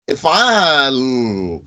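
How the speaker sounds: If'al said with the tongue held on the last consonant; hold the tongue on sukoon. Shown as a demonstration. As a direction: stop on If'al and keep the tongue pressed in place. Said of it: "holding your tongue there".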